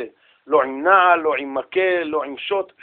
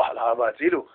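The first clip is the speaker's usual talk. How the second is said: soft, higher mock cry; hushed imitation of a yell; retold cry for help; 4 semitones higher, 9 dB quieter than usual. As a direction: echo a child's scream under the voice. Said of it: "ככה הבן צועק".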